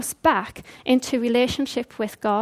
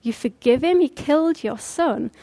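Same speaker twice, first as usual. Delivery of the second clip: shocked disbelief. Retold or imitated. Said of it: "it just shocked everyone there".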